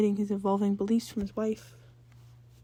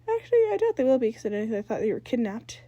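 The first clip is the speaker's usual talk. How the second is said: put-on annoyed older sister; 2 semitones higher, 4 dB louder than usual. Jazz voiced, annoyed sister.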